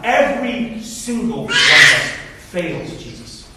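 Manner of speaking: slow, weighty, emphatic sermon delivery; earnest preaching. Real, not acted. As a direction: lay the charge on the whole congregation, yourself included. Preaches congregation's failures.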